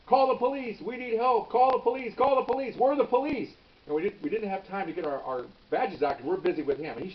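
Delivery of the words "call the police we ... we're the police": high-pitched urgent calling out; urgent yelling. Retold or imitated. Undercover cop yelling to the clerk for help, urgent high yell. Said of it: "So I'm yelling".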